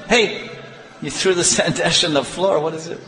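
high-pitched indignant mother; mock scolding. Sachi scolding over sweets on the floor, mock indignant. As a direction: cry "hey" high, then scold lightly.

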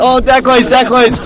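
very high frantic pleading chant; panicked praying. Retold or imitated. Krishna surrounded by gopis, very high mock-panicked praying. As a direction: gabble prayers in a hammed-up panic.

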